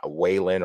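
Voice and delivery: Wallin begun with an English W; an anglicized guess at Wallin, with a W; another mispronounced Wallin. Shown as a demonstration. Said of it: "or whatever way".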